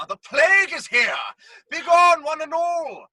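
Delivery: loud proclamation; commanding shout. Acted. Masked man halting the play, shouting. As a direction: stop the show by force. Driving audience away.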